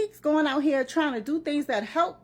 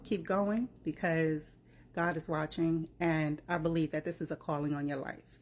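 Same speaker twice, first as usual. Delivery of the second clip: softer, tender and sincere; sincere encouragement; 5 semitones lower, 4 dB quieter than usual. Real, not acted. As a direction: comfort him gently, from the heart. Comforting message to Keith Lee.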